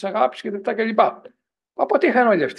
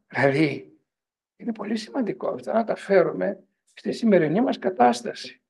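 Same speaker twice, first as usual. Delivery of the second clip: normal talking voice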